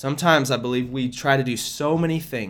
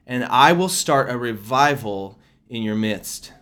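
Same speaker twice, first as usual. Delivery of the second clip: prophetic proclamation. Acted. Delivers prophetic word from God.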